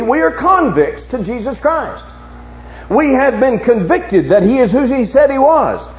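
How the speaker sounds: impassioned sermon challenge to the congregation; forceful preaching. Real, not acted. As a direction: preach it out with driving, sustained emphasis.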